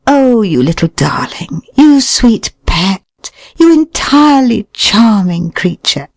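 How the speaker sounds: sweet, high coo to a pet; cooing baby talk. Shown as a demonstration.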